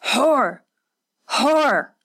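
high, sharp repeated shriek of the insult; shrilling. Acted. Hatsumi shrieking at the servant girl while beating her, shrill. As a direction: shriek each word at her victim. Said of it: "Hatsumi shrilled".

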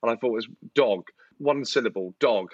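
dog said flatly as one short syllable; stress on dog. Shown as a demonstration. Telling friends why a dog seemed simple, stressing dog. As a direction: land on dog, dog, one plain beat. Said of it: "do not be fooled by dog being one syllable".

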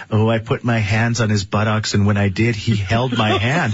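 lightly voiced creepy girl. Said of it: "I love your creepy girl voice".

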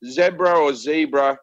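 "zebra" first with short e, then long ee; two pronunciations. Shown as a demonstration. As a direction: contrast "zebra" as zeb-ra and zee-bra. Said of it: "how to pronounce".

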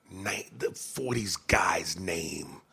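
whisper. Real, not acted. Whispering aside to co-host.

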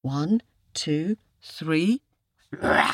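measured count into a loud roar; full roar. Shown as a demonstration. Storyteller leads listeners in the tiger's roar, loud. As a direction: count clearly, then let rip with a long rah.

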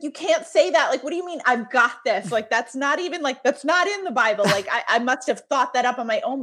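a hint of a mother refusing to believe it; incredulous protest.

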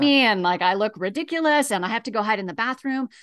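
quick, run-on imitation of self-conscious worry; mildly flustered, hurried protest; acted fretting objection. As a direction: rattle off the excuses as someone resisting tears. Voices a griever's self-conscious objection.

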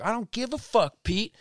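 high, loud fed-up yelling; loud exasperated outburst at a friend; retold angry yelling. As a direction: snap back at him, done with it all. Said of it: "I started yelling at him".

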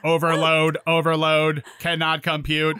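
beep-boop robot impression; lightly voiced robot; toy robot voice. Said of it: "can I do my Kennedy real quick?".

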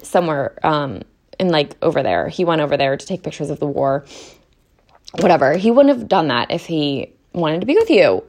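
fired-up rant about a book character; getting heated. Real, not acted. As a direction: vent it all at once. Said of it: "that's me getting heated".

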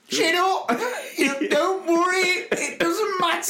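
very high, strained mock cheerfulness; pained encouragement. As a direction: shout comfort from the sideline through obvious agony. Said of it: "I looked in pure pain going".

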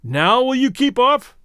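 slow, loud and high demand. A narrator's reading. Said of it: "he demanded".

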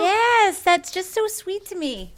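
touched and tearing up; emotional. Real, not acted. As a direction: voice jumping high, choked up with feeling. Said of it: "I'm getting emotional".

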